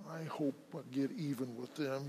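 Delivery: mumbling. Retold or imitated. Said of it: "he's mumbling".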